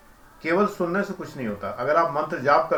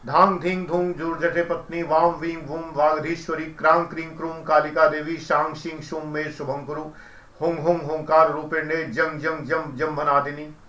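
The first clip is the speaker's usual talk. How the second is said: rhythmic, even chant of seed syllables; mantra recitation. Shown as a demonstration. Teacher demonstrating seed mantras from the hymn, rhythmic recitation. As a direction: recite in steady, measured pulses. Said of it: "कई बीज मंत्र वाली चीजें होती हैं".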